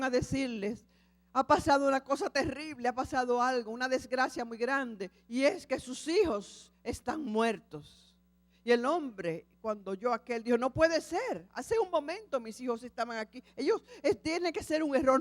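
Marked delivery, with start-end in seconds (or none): 1.3-8.0 raised, urgent alarm in the voice; frantic bearers of terrible news; alarmed messengers. Acted. 10.6-15.2 higher, pleading disbelief; stunned father protesting; shocked disbelief. Acted. Father refuses to believe.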